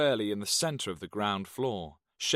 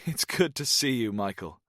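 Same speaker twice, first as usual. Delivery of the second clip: fake Welsh accent; 2 semitones higher than usual. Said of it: "adopted a fake Welsh accent".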